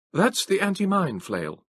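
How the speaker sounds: high, slow crisp officer voice; the masked trooper explaining his machine, high and slow; young trooper. A narrator's reading.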